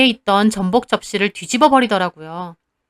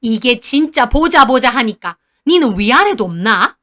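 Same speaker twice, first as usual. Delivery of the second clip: arguing grandma; 3 dB louder than usual. Acted. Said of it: "할머니도 지지 않고 따지시더라고요".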